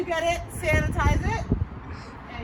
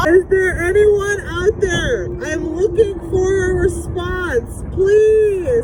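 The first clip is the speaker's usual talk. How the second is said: calling out; 2 semitones higher, 4 dB louder, slower than usual. Pretend. Calling into tin can.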